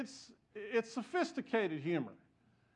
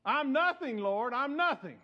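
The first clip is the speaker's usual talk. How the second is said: loud, high, anguished cry of self-abasement; crying out to God; 5 semitones higher, 5 dB louder than usual. Retold or imitated. Pastor alone on the altar, crying out to the Lord loudly. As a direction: throw it out at the top of your lungs. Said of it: "I began to cry out".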